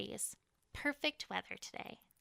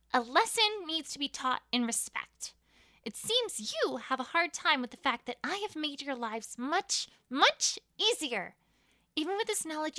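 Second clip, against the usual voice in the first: louder, higher commanding address; cruel queen's speech; 3 semitones higher, 4 dB louder than usual. Acted. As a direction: lecture the slaves with icy menace.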